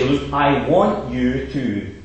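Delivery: slow and firm, each word deliberate; insist, don't ask; firm demand. Retold or imitated. Preacher contrasting a firm demand with a polite ask, slow and firm. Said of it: "It's quite different".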